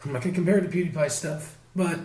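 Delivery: rough, hoarse laryngitis voice. Real, not acted. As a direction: talk through a raw, hoarse throat. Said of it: "do you wanna explain why you sound like a chain smoker".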